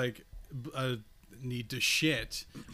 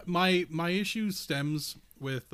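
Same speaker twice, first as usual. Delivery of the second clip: chewing gum; 4 semitones higher, 3 dB louder, slower than usual. Real, not acted. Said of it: "I gotta stop chewing gum".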